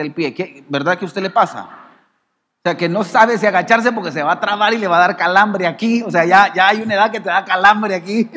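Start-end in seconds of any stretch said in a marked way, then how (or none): 2.8-8.3 loud, insistent pulpit delivery; animated preaching. Acted. Preacher teasing the congregation about age and cramps, animated preaching. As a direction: press the point on the congregation loudly.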